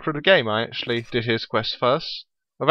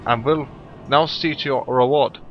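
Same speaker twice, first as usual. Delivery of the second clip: hammy betraying villain, rising to a shout; villainous guild boss voice; 5 dB louder than usual. Acted. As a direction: read it like a treacherous crime boss. Voicing a game character's dialogue.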